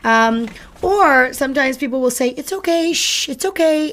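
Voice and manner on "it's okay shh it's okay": higher, hushed coo with a shh; calming soothing voice. Retold or imitated. Owner soothing a crying puppy in the crate, high gentle coo. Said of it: "speak to the puppy in a very calming and smooth, soothing voice".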